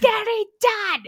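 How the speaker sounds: high, loud, drawn-out wail of frustration; losing it. Retold or imitated. Overwhelmed patient venting to a friend about laundry, losing it. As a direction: melt down over every word, slowly. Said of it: "I was just losing it".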